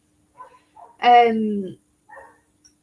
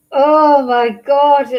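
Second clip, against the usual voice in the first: slow, much louder outburst of exasperation; real anger boiling over at the defendant; getting angry; 3 semitones higher, 9 dB louder, much slower than usual. Real, not acted. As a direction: let the anger burst out, drawn out. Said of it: "now I'm getting angry".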